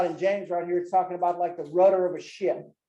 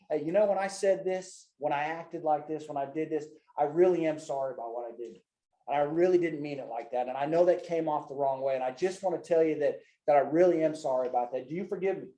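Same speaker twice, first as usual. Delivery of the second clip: sincere apology demo; 3 semitones lower than usual. Shown as a demonstration. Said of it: "Being apologetic and say".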